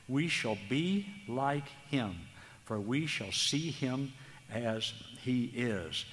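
measured, slowed reading of the verse; scripture reading. Acted. Preacher reads First John three to the brethren, measured and solemn. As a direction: read the Word with solemn weight.

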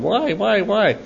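put-on high little-kid question; Connor. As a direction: imitate a curious small boy. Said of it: "he's been going".

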